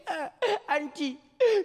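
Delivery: put-on high, slow whimpering child; mock crying child. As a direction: sob out to auntie. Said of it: "my cousin would be like".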